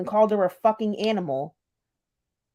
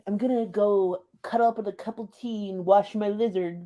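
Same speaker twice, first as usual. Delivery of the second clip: mocking wimpy voice. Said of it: "how unscary can you be?".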